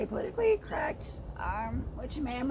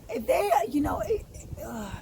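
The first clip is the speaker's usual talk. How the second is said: voice breaking. Real, not acted. Voice breaks, crying.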